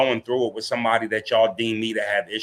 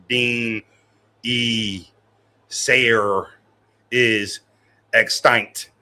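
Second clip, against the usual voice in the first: struggling reader; 3 semitones lower, much slower than usual. Retold or imitated. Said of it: "Boy be like".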